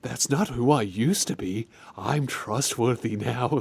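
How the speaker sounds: lightly voiced shady character; mock-creepy, slightly low reassurance; untrustworthy bloke. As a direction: imitate a suspicious man claiming innocence. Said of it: "if you meet a bloke and he's talking like this".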